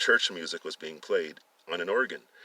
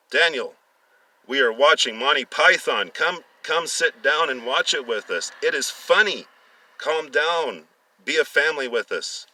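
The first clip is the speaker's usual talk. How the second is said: still laughing; 5 semitones higher, 5 dB louder than usual. A narrator's reading. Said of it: "as she was still laughing".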